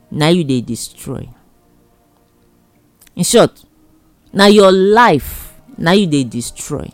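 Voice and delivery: ordinary delivery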